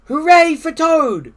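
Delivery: high, loud hooray; shouted cheer. A narrator's reading. Frog cheers Toad from the theater, high shout. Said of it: "as he shouted".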